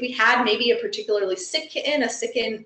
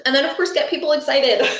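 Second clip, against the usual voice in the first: said through a laugh, higher and quick; 4 semitones higher, faster than usual. Real, not acted. Presenter laughing as she urges webinar listeners to get people excited. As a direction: let a laugh break into the words.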